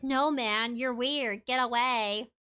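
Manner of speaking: low flat monotone brush-off; bored robotic monotone. Retold or imitated. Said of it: "In the most technical, monotone voice ever".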